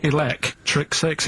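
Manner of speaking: slowly repeated, Six lifted; slow again. Shown as a demonstration. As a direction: say Six with a rising lift. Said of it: "don't say it like that".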